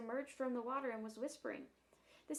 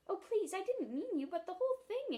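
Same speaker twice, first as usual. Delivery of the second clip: put-on much higher, louder anxious child; pleading apology; 9 semitones higher, 5 dB louder than usual. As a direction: hurry to apologize. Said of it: "explained Jane".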